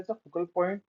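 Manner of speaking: slow, careful reading from a slide; slow text reading. Real, not acted. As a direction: read it word by word. Reads slide text aloud. (धीरे-धीरे पढ़ना)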